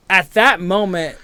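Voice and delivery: ordinary talk, nothing marked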